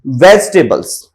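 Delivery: "वेजिटेबल्स" as VEJ-te-buls; correct pronunciation. Shown as a demonstration. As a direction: drop the i in "वेजिटेबल्स". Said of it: "वेजिटेबल्स होता है".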